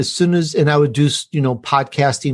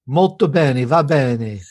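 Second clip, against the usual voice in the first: Italian phrase; slower than usual. Pretend. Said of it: "finish the show with something Italian".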